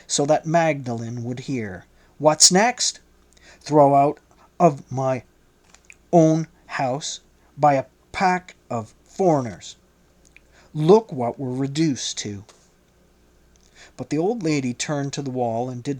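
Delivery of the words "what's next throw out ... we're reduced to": enraged husband snapping loudly; loud, raging. A narrator's reading. Old man shouts at his wife in rage. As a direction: raise the voice in a rage. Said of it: "he said in a loud voice".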